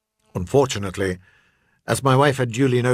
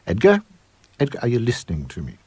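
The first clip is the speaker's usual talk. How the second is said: sharp insistent call. Acted. Wife demands husband's attention.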